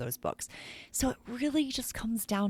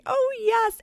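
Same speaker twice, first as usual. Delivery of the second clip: squealed high and loud with delight; a thrilled teacher's cry of joy; excited teacher; 5 dB louder than usual. Retold or imitated. Teacher reacting to the books.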